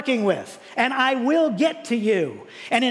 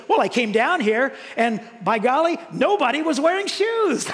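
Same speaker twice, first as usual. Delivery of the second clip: excited salesman; 5 semitones higher than usual. Retold or imitated. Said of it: "And he says".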